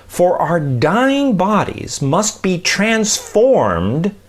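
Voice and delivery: slow, measured reading of the verse; scripture reading. Acted. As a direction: read it out like Scripture, deliberately. Reads Bible passage aloud.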